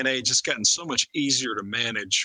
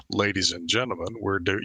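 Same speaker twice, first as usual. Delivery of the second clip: low, drawled captain announcement; a light imitation of a pilot; airline pilot voice; 4 semitones lower than usual. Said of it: "that whole affectation that airline pilots have".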